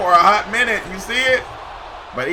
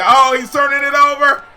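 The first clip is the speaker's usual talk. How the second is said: rising, louder live call; excited play-by-play; 5 semitones higher, 7 dB louder than usual. Real, not acted. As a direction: call the final shot with building hype. Live play-by-play of last seconds.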